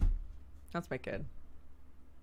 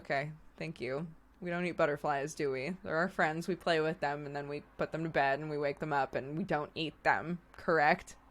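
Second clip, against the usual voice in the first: gentle parent voice; 2 semitones lower, 4 dB quieter than usual. Retold or imitated. Talking gently to toddler.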